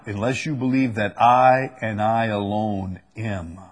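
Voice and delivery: "I" set apart and leaned on, then "I alone"; stress on I. Shown as a demonstration. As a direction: lean firmly on each "I", pausing before "am". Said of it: "says the emphasis here is that I".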